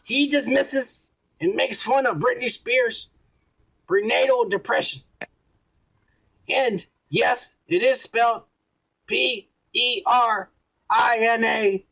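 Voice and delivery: slow, deliberate letter reading; halting, measured read of a written comment; reading aloud. Real, not acted. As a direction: read it out carefully, phrase by phrase. Reads a listener's letter aloud.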